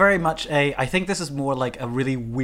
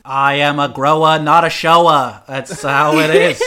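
mock defiant boast; 7 dB louder, slower than usual. Defiant joke line, loud.

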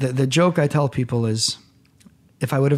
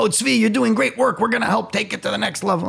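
mocking an empty promise; 10 semitones higher than usual. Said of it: "people have always said to me".

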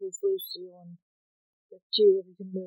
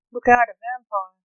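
shouted warning; 3 semitones higher, 9 dB louder than usual. Acted. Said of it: "I shouted".

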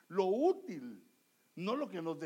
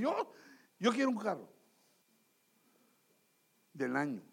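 hammed-up demanding wife; angry wife; faster than usual. Angry wife demands a car from her husband, mock-insistent. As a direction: imitate a wife insisting in a huff. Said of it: "la esposa está enojada y te dice".

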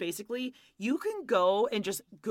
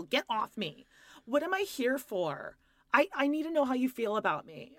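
whiny wife; 3 semitones higher than usual. Retold or imitated. Host mimicking the wife begging her husband, mock needy. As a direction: play the clingy wife, half-whining.

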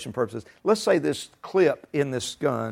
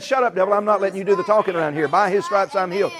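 firm, mildly raised rebuke; aggressive faith; 4 semitones higher, 3 dB louder than usual. Acted. Believer answering the devil back, aggressive rebuke. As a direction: talk back forcefully to silence the devil. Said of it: "That's called aggressive faith".

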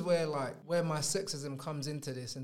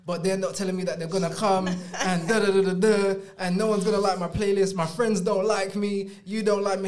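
hammed-up tearful complaint, building louder; mock crying rant; 6 dB louder than usual. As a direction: imitate an upset girlfriend spiralling into a loud wail. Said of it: "Then she starts crying".

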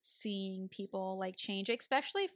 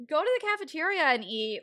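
raised, louder motherly order; imitated scolding mom; 7 semitones higher, 9 dB louder than usual. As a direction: play a mom laying down the rule. Voices mother scolding about spending.

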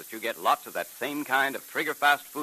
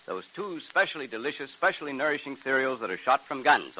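put-on upbeat old-time radio announcer. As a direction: sell the cliffhanger and cereal. Program announcer.

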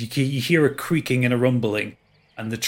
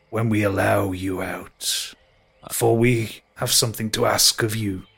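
ancient tree. Acted. Tree speaks to party.

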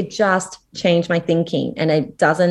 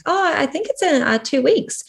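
casual answer; 10 semitones higher than usual. Retold or imitated. Acts out her innocent answer.

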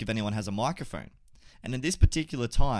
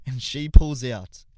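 slow, drawn-out build to the reveal; slow dramatic build; 8 dB louder, much slower than usual. Real, not acted. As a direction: stretch each word, then hit biggest loud.

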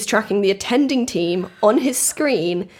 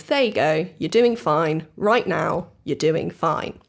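steady, lower, gently settling voice; retold reassurance; 4 semitones lower, 3 dB quieter, slower than usual. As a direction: imitate a dispatcher soothing a caller. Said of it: "does everything he can".

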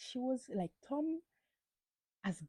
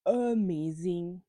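loud, drawn-out amazing; gushing; 7 dB louder, much slower than usual. Real, not acted. Vlogger raving about Teresa's reunion dress, gushing. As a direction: stretch amazing out in awe.

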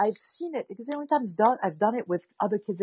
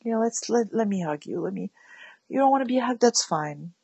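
mirroring sadness. Acted. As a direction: hush down and share their sadness gently. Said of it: "a little bit of an actor".

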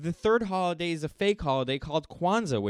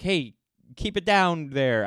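slow, louder mock bus driver call; bus driver yell; 3 semitones higher, 6 dB louder, slower than usual. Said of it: "That's my bus driver accent".

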